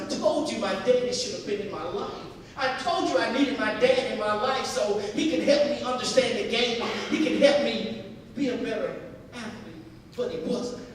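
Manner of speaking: put-on loud, anguished complaint of a boy to his mother; acted upset son, pleading loudly; retold crying outburst. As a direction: pour out the hurt loudly, as if crying. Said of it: "he started to cry".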